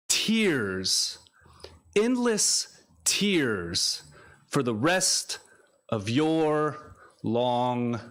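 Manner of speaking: spoken-word recital with deliberate pauses; measured poetic cadence, key words drawn out; poetry reading. Acted. Poet reads a dedicated piece to an audience, solemn recital. Reads own poem aloud.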